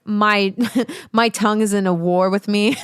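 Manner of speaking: jokey, lightly put-on weird voice; half-laughing mock complaint. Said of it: "speaking in these weird voices".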